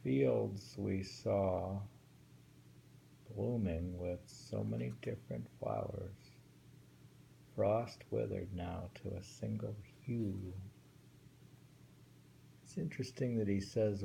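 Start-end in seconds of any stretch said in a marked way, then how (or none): 0.0-10.5 measured recitation of a waka; reading a winter poem aloud to a friend. Shown as a demonstration. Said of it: "reads poem aloud".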